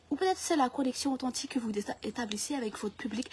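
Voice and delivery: soft, measured interviewer voice; flattering French interviewer. Acted. Interviewer flattering an author about their book, hushed and reverent. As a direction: praise the guest quietly and earnestly.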